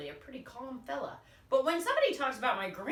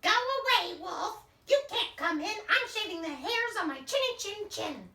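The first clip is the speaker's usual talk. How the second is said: higher, louder pig yell; yelling back; 10 semitones higher, 5 dB louder than usual. Acted. Pig yelling at the wolf to go away, loud and high. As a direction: shout him off from inside the house. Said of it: "he yelled back".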